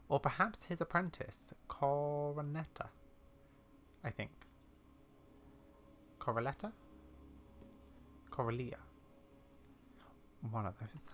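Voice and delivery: put-on wry, measured old lady with secrets; old lady character. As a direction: confide like a knowing elderly explorer, softly.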